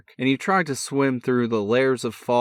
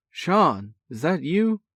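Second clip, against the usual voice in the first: sleepy brother's mock-indignant bark, pitched high; 10 semitones higher, 3 dB louder than usual. A narrator's reading. Woken brother barking into the phone, mock indignant. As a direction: bark it out, half annoyed, half amused. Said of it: "barked Eric".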